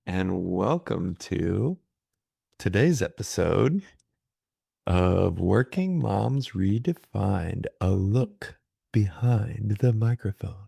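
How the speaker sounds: slow, measured podcast host intro. Acted. Host welcomes listeners to the episode, slow podcast voice. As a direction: open the show slowly, with deliberate pauses. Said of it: "podcast voice? 'Cause it's top notch".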